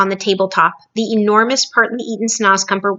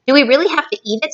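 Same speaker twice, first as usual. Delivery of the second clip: lightly voiced girl; 6 semitones higher, much faster than usual. Sophie's line read to children.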